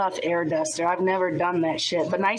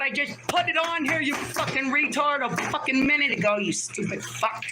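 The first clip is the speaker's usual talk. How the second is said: angry; 5 semitones higher than usual. Real, not acted. Yelling insults at chat.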